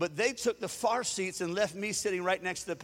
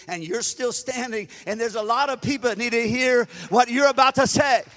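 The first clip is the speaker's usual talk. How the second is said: building from firm to a loud, higher shout; rising exhortation; 4 semitones higher, 8 dB louder than usual. Retold or imitated. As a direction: swell into a commanding call to stand tall. Holy Spirit urges him, building.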